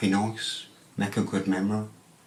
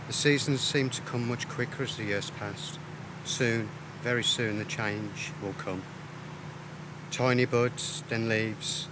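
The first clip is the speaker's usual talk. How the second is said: poem recital. Acted. Poet reading his poem on ageing to the camera, measured and reflective. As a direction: let each image land, unhurried and reflective. Reads second poem aloud.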